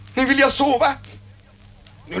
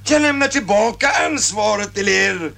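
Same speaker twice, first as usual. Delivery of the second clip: defiant shout. Acted. Confronting the colonel.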